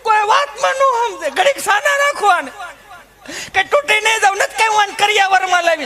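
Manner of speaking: high, chatty rustic wife voice; high housewife rant about husband and kids; village housewife. Retold or imitated. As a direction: gossip and grumble like a harried mother. Held housewife character.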